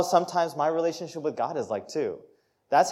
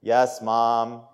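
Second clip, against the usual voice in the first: imitated weary teen compliance, pitched down; eye-rolling teen; 4 semitones lower than usual. Teen answering mom's driving lecture, mock eye-rolling. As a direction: grudgingly agree with an eye-roll. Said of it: "You roll your eyes".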